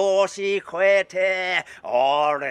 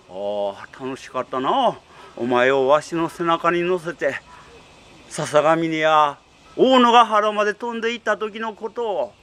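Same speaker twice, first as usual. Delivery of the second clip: put-on old tengu voice; 2 semitones lower than usual. Tengu reminisces fondly.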